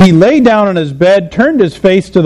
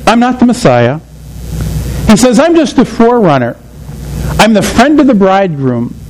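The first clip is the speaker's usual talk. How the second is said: a lightly voiced John, pitched higher and earnest; John's reply; 5 semitones higher than usual. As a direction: speak up as the humble forerunner. John answering his disciples.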